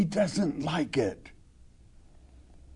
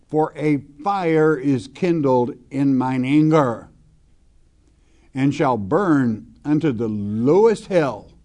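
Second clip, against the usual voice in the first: scripture reading; 3 dB louder than usual. Acted. Reads scripture aloud from pulpit.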